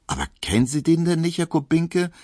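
high, quick, amazed exclamation; calling out. A narrator's reading. Pauline calling out to Emil in surprise, quick high exclamation. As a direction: tumble it out, astonished he doesn't know. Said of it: "rief Pauline".

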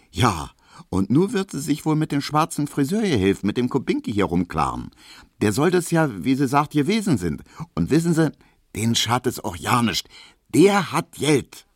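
high, chatty Berlin housewife; gossiping landlady. Acted. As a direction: spill the house gossip eagerly. Piesecke gossips on.

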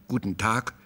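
"Guten Tag" with sharply articulated consonants. A narrator's reading. Dismissed visitor taking his leave, "Guten Tag" with pointedly sharp consonants. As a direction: put a hard edge on the consonants of "Guten Tag". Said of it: "den Konsonanten eine erhebliche Schärfe abgewinnend".

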